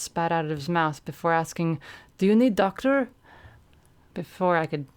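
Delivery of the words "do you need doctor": a hint of a big Russian, louder; Elbow's voice. Russian teammate asking hurt Quadra, blunt and loud. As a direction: ask bluntly, concerned. Elbow asks in broken English.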